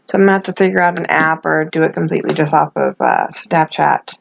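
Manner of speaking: toothless speech, real, gums only; no teeth. Real, not acted. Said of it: "no teeth".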